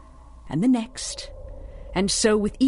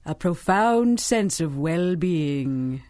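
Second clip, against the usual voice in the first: hypnotic; slower than usual. Acted. Villain hypnotising drugged girl.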